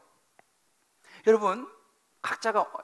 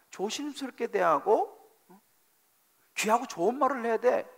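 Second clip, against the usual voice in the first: God speaking. Retold or imitated. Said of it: "라고 주님께서 우리에게 말씀해 준다는 거예요".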